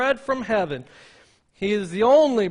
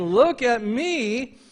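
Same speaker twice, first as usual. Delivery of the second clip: mock boast; 4 semitones higher, 4 dB louder, much slower than usual. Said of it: "boasting and tooting my horn".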